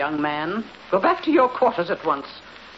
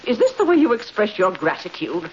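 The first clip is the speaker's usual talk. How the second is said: indignant; 5 semitones higher than usual. Acted. Mother scolds defiant daughter.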